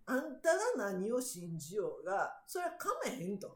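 firm retort. Retold or imitated. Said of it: "って".

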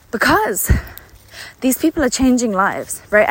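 breathless, catching breath. Real, not acted. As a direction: talk while out of breath. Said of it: "And yes, I'm out of breath".

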